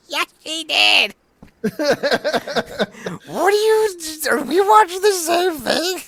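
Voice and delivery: high, loud incredulous pushback; exasperated disbelief. Real, not acted. Host arguing with the commentator's call, exasperated. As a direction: argue back in disbelief.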